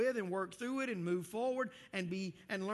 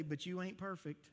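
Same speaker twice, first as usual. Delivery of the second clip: Texas twang; 4 dB quieter than usual. Shown as a demonstration. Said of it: "in your thickest Texas twang".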